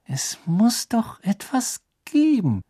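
slow whispered musing to herself; murmured. A narrator's reading. Hermine searching old books, murmuring slowly in a whisper. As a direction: whisper it slowly, thinking aloud. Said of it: "murmelte Hermine".

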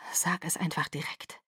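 tonlos und viel leiser; scharfes Flüstern. Acted. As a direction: zisch es ungeduldig. Bella verliert die Geduld. (Bella drängt Jacob, tonlos geflüstert)

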